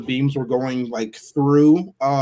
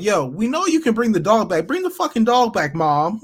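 higher-pitched mock demand, building in pitch; imitating insistent kids; 4 semitones higher than usual. Kids begging mom to bring the dog back, mock insistence. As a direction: act out kids pestering their mother.

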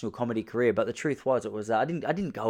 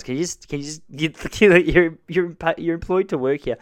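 exasperated; 6 semitones higher, 5 dB louder than usual. Retold or imitated. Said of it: "I go".

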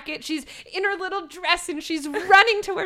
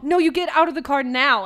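louder, firm quoted order; insistent command; 5 dB louder than usual. Retold or imitated. Joelle ordering her fiancée out of the car, firm and loud. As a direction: put your foot down.

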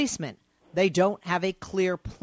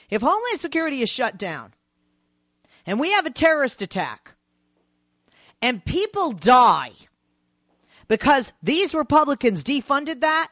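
long pauses between each phrase, building; dramatic pauses; 6 semitones higher, 5 dB louder than usual. Real, not acted. Host builds a dramatic warning.

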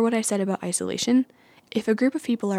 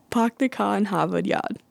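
Boston accent with dropped R's; lightly hammed-up Boston accent, R's dropped. Shown as a demonstration. Vlogger demonstrating the Boston accent for viewers, Boston accent. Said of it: "the first one is the Boston accent".

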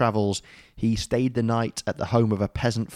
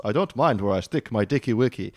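put-on weird Persian accent. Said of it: "a weird Persian accent".

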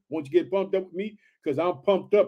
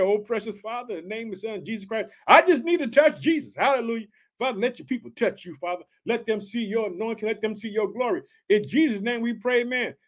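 closing prayer. Real, not acted. Preacher closes in prayer.

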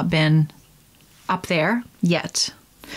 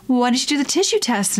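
mock ad pitch; 5 semitones higher, faster than usual. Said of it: "stupid commercials".

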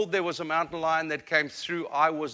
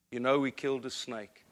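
gentle mother; 4 semitones lower, 6 dB quieter than usual. Retold or imitated. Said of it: "she said".

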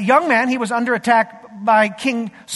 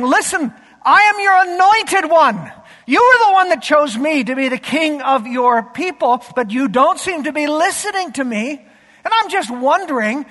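urgent, louder and higher voice of David pleading with God; imitating David; 4 semitones higher, 4 dB louder than usual. Pastor voicing David's frustrated prayer, higher and louder. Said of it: "as if David is praying".

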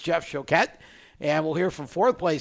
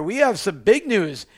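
normal talking voice

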